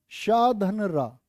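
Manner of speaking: शा and रा drawn out slowly; slow breakdown. Shown as a demonstration. Teacher splitting त्रा into sounds, slow. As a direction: spell out the sounds one by one, slowly.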